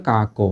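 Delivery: কা কো with a closed o on the second syllable; second vowel as o. Shown as a demonstration. Teacher applies the rule, ক becomes o in কা কো. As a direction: round the vowel after the second k in কা কো. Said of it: "তাহলে কটা হয়ে যাবে ও".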